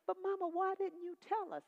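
high, pleading daughter; pleading question. Retold or imitated. Daughter asks her dying mama why she hid it, high pleading. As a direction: ask it high and hurt.

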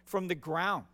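demonstrative. Acted. God to Cain about his murdered brother, demonstrative. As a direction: declare it forcefully, punching the key words. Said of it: "It's very demonstrative".

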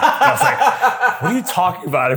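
laughing through the words. Real, not acted. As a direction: giggle while telling it. Retold confusion while laughing.

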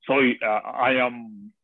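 a bad imitation of a German actor in English; German accent impression. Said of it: "ya soy mal imitador".

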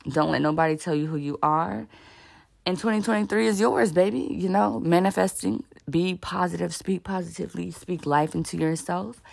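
talking with retainers in; slightly lisped retainer speech; wearing a retainer. Real, not acted. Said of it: "I got my retainers in, so if I sound a little funny".

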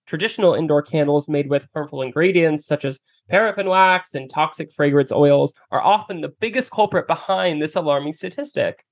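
polished podcast sponsor read. Real, not acted. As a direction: deliver a scripted host endorsement. Reads a sponsor ad.

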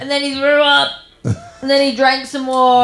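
put-on British accent. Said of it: "amazing British accent I've ever heard".

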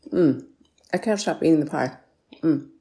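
talking with a mouthful of pie; mouth full. Real, not acted. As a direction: speak through a mouthful. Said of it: "I'm always stuffing my face".

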